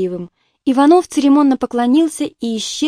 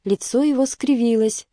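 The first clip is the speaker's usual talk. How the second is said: ordinary delivery, nothing marked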